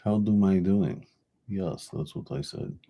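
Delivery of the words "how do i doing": a louder mock Russian accent. Trying his Russian accent again for viewers. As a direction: repeat it in a hammed-up Russian accent. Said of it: "This is my best Russian accent".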